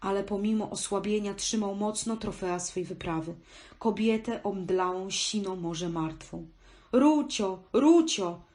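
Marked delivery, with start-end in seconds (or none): 6.9-8.3 high-pitched, loud shout carrying far. A man calls out to his exhausted friend struggling in the water, shouting. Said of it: "krzyknął Żabba".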